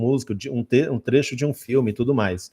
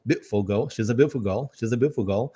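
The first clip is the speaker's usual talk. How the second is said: British "beautiful" with T and I eaten; British swallowed sounds; 2 semitones lower, 3 dB quieter than usual. Shown as a demonstration. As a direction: say "beautiful" as "be'ful", British style. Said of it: "essa comida no T e no I aí pra falar beautiful".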